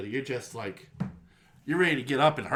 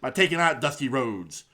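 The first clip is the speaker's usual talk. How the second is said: Dusty Rhodes impression. Podcast host imitating Dusty's Hard Times promo for his cohost, lightly voiced wrestler promo. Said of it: "I'm trying to do a Dusty impression".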